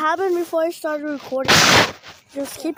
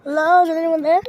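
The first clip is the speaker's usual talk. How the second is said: calling out; 9 dB louder than usual. Real, not acted. Calling to a possible ghost on the walkie-talkie, loud. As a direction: call out to whoever is there.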